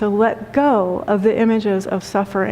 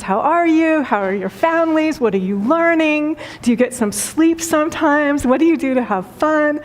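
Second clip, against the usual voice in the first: bright, higher, eager questions; beaming with joy; 5 semitones higher than usual. Retold or imitated. A joyful patient eagerly asking the interns, beaming voice. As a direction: ask like you're overflowing with joy. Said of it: "beaming with joy, smiling".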